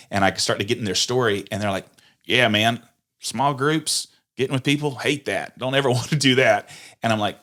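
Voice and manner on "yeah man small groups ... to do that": mock dismissive churchgoer. Imitating people who hate groups.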